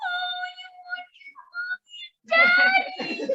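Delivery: very high, very loud fake blubbering, stretched out. Retelling what someone said when asked where the speaker's parents are, mock crying voice. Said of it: "got in a crying voice and said".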